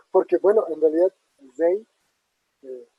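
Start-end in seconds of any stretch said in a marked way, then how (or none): 1.6-1.9 zei with the stress on an open E; open E demo. Shown as a demonstration. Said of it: "el acento cae en la E, y es una E abierta".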